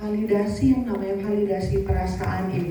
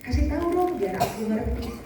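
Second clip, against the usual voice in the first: klien kesal; 3 semitones higher than usual. Shown as a demonstration. Memerankan klien yang marah.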